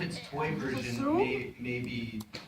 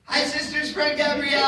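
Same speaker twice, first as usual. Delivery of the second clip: excited greeting; 11 semitones higher, 5 dB louder than usual. Real, not acted. Greeting a fan on request.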